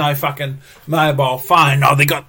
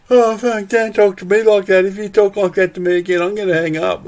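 higher mock-indignant voice; hammed-up prissy threat to hang up; offended staffer; 5 semitones higher than usual. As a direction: play the clerk taking offence and threatening. Mimicking offended council staffer.

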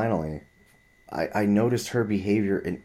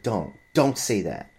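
slow, drawn-out protest; defensive mock protest; slower than usual. Imitating the woman teased about a crush, defensive. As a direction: imitate someone flustered by teasing.

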